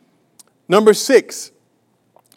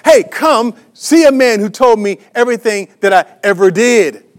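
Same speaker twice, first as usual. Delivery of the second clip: mildly excited retelling, a touch louder; enthusiastic; 3 semitones higher, 4 dB louder than usual. Retold or imitated. Preacher retells the woman calling her town, mildly enthusiastic. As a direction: lift it with her eager joy, lightly. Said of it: "she went out enthusiastically".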